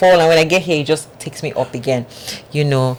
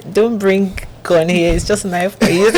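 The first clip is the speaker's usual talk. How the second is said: higher, laughing mock broken English; laughing joke; 4 semitones higher than usual. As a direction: giggle through it like a cheeky joke.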